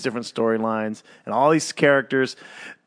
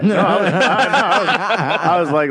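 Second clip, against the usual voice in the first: louder, laughing defense; laughing protest; 5 semitones higher, 4 dB louder than usual. Real, not acted. Answering the heartless jab, laughing and louder. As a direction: laugh through the denial.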